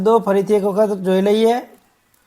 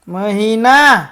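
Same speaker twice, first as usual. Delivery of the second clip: મહિના less stretched, a little louder; loud drill word. Shown as a demonstration. Teacher leads children to repeat after them, loudly. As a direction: call out મહિના for the class to echo. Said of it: "બોલજો જોરથી".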